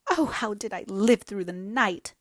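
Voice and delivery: wild. Acted. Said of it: "said Hazel wildly".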